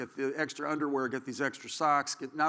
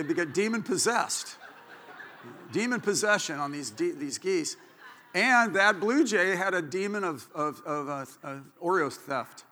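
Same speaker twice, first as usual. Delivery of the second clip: usual speaking voice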